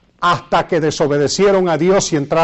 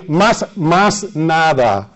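Puerto Rican Spanish; much slower than usual. Retold or imitated. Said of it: "un puertorriqueñismo ahí bien, bien feo".

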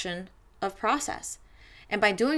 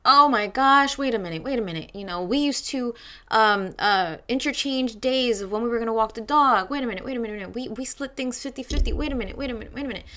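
higher, flustered mock panic; retold freaking out; 4 semitones higher, 3 dB louder, faster than usual. Recalling her breakup in the pandemic, mild mock panic. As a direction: replay your own alarm, lightly hammed. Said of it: "I was freaking out".

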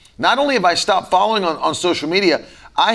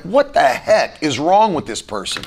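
irritated. Retold or imitated. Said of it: "I would instantly just get irritated".

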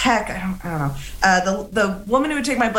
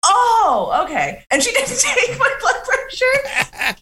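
high and laughing; talking through giggles; 10 semitones higher, slower than usual. Real, not acted. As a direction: laugh the words out. Laughing while retelling nurse reply.

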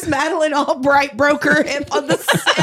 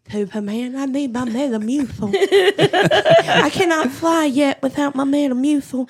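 put-on old woman voice. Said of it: "looking at Superman going".

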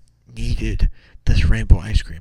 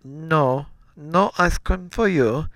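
higher, drawn-out motherly refusal; lightly voiced mom saying no, stretched out; mother's voice; 6 semitones higher, much slower than usual. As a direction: put on a mom voice, slow and higher. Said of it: "That's my mother, apparently".

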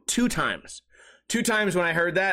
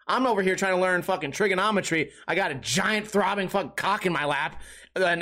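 ordinary talk, nothing marked

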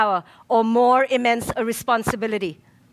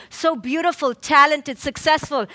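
ordinary talk, nothing marked

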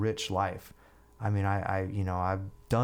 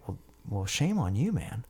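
mock scolding with raised pitch; imitated lecturing. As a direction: mimic a friend giving a reproachful lecture. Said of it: "lecturing me".

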